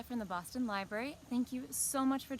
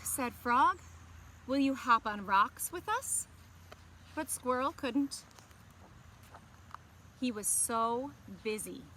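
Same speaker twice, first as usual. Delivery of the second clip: gentle, expressive storybook reading; picture-book narration to young listeners; reading to children. A narrator's reading. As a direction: read it like story time for kids. Story narration and character line.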